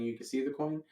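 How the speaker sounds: "You can see the coin" stated, not questioned; told, not asked. Shown as a demonstration. Magician tilting the coin to a spectator, telling not asking. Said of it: "I tell him".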